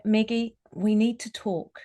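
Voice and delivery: a gentle invitation to talk. Shown as a demonstration. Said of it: "So the voice is pulled back a little bit".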